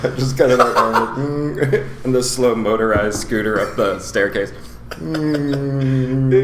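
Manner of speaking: imitating a slow scooter hum; motorized scooter impression. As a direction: putter like a stairlift scooter. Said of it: "That was a good motorized scooter impression".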